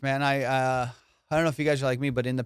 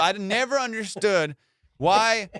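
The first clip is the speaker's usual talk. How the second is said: normal talking voice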